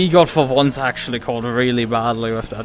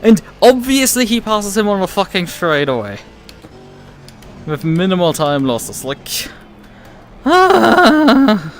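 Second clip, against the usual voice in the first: angry ranting, pitch raised high; swearing tirade; 6 semitones higher, 5 dB louder than usual. Real, not acted. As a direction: vent rage at the other car. Still raging at rival driver.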